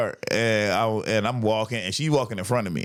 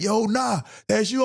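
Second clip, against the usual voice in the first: retold surprise; 10 semitones higher than usual. Friend spots him, retold.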